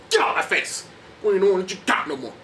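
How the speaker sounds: shouting Clubber Lang impression, high and loud. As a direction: bark it out like a tough boxer. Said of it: "he's all like".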